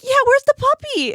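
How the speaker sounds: very high, loud mock distress; hammed-up frantic demand. Imitating a friend fretting over the puppy, hammed-up demand.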